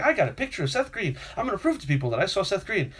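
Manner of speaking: high-pitched retold excitement; excited. Fan on the train home with his photo, excited. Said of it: "I was excited the whole way home".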